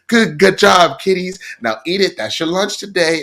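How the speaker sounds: high, sing-song proud mom; mock mom. Mocking a mom praising her sample-grabbing kids, high and cooing. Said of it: "And mom's like".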